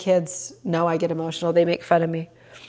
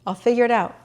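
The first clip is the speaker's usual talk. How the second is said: repeated higher, lightly lifted; self-reassuring; 4 semitones higher, faster than usual. Real, not acted. Telling herself about the Peloton, reassuring. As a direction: settle your own worry.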